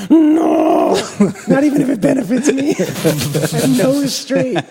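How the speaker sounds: high-pitched mock outburst through laughter; hammed-up defiant refusal. Acting out Miles refusing to relax.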